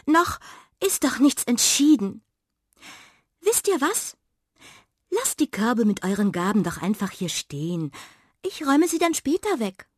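cheeky cat voice. A narrator's reading. Miranda hastily keeps the food.

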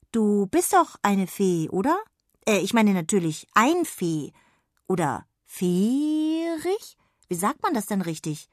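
puzzled, searching for the right word; confused girl. Acted. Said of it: "fragte Jonna verwirrt".

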